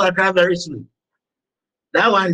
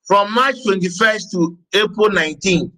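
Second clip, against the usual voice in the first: measured dictation. Acted. Dictates dates and elements to the class.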